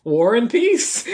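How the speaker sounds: slow, rising, defiant name-drop; deadpan answer. Acted. Layla answers Will's question with a slow, defiant name. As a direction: drop the name slowly like a challenge. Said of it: "And she goes".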